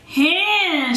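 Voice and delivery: "Hin" with an aspirated H onset. Shown as a demonstration. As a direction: push "Hin" up with a breathy H. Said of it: "uses a little H to kind of propel".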